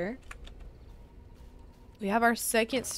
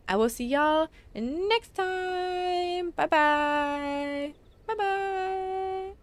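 sing-song goodbye; 8 semitones higher, much slower than usual. Real, not acted. Sing-song farewell to viewers.

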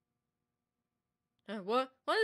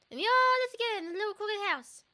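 higher and louder, in an altered sing-song voice; eerie rhyme voice; 7 semitones higher, 4 dB louder than usual. Acted. Player voicing the rhyme's creepy child, eerie sing-song.

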